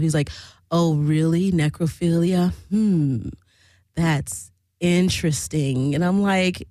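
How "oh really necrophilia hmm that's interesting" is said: lightly mimicked low, pondering interest; intrigued man. Swinger hearing about the narrator's necrophilia topic, intrigued. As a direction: play a man mulling it over, drawing out the last words. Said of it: "really intrigued by me".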